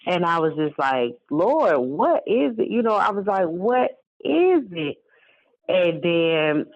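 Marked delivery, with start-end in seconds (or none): 1.3-5.0 desperate plea. Retold or imitated. Desperate plea to God, retold.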